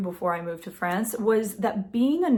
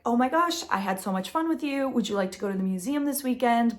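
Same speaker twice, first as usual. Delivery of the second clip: raised, bright mock enthusiasm; his texts, voiced with higher eager lilt; eager texting guy; 4 semitones higher than usual. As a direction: read his text like a gushing fan. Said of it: "he's saying like".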